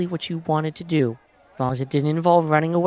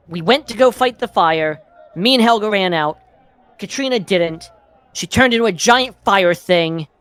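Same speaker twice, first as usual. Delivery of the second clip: angry; 4 semitones higher, 5 dB louder than usual. Acted. Angry in-character rant.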